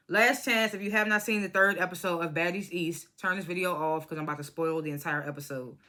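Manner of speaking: dry mouth. Real, not acted. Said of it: "My mouth is so dry".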